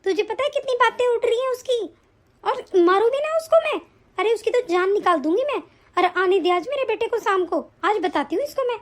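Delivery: fuming mother-in-law's tirade; angry rant. Acted. Mother-in-law threatening her absent daughter-in-law, angry. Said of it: "आप भी बहुत गुस्सा कर रही हैं".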